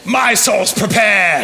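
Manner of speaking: slow hammed-up movie quote; mock movie line. Pastor replaying an Indiana Jones line, slow and hammed. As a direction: ham up the hero's defiance. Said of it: "quoting the film clip".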